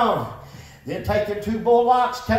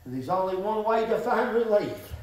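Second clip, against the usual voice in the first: quiet reflection; 6 semitones lower, 8 dB quieter than usual. Real, not acted. Softer reflective confession.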